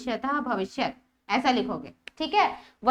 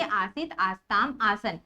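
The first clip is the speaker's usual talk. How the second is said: आसीत, आस्ताम, आसन low and evenly listed; line-by-line recitation; 5 semitones lower, slower than usual. Shown as a demonstration. Teacher showing how to read आसीत, आस्ताम, आसन, line-by-line recitation. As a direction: recite आसीत, आस्ताम, आसन one form at a time, lower. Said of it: "कैसे पढ़ेंगे?".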